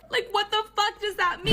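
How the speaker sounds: high, half-whining disbelief; retold panic, pitched well up; mock alarm. Woman alarmed by the elevator remark, high whiny disbelief. Retelling her alarm at the threat.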